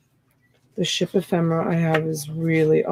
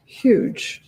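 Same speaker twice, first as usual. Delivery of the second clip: whispered echo; 4 semitones higher than usual. Acted. Echoes huge about the shorts.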